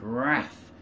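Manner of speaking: "wrath" with the a of "cat"; "wrath" the American way, like "rath"; American pronunciation of wrath. Shown as a demonstration. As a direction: say "wrath" to rhyme with "math". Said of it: "so I still use the American".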